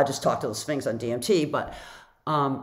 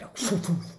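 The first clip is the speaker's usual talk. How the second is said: imitated whoosh; 3 semitones higher than usual. Imitates the Sphinx rushing up.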